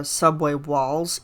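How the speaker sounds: slow, pushed-forward hint of a rock tenor; imitating a rock tenor push. Fan mimicking the singer's rock tenor, slow and pushed. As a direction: lightly mimic the singer's belt. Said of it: "he really pushes that to the front".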